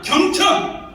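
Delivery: called out high and loud, like a slogan; emphatic cry. Real, not acted. Lecturer proclaiming a core idea to the audience, high and loud. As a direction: ring out the key word. Preaching key word to audience.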